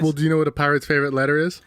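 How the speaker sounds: quick pirate voice on a joke; a hint of a pirate telling a riddle. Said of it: "Was that a pirate voice?".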